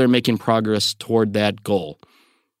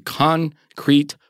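"concrete" set apart as if in quotation marks; air-quoted word; 6 semitones higher than usual. Real, not acted. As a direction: say "concrete" slowly, split as con-crete. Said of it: "I did that in quotation signals".

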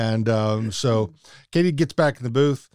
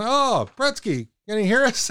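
hick host voice; 10 semitones higher than usual. Retold or imitated. Voicing host greeting caller.

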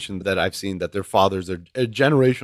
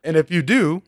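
blunt; 4 semitones higher than usual. Retold or imitated. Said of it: "he was just blunt about it".

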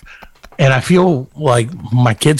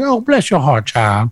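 mock Southern sweetness; slower than usual. Southern person to someone they secretly want to throttle, mock sweet. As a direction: coo it with hammed-up Southern sweetness. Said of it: "they say it so sweetly".

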